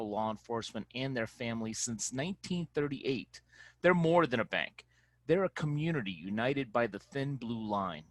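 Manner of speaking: polished, scripted podcast sponsor read. Acted. Reads the sponsor ad.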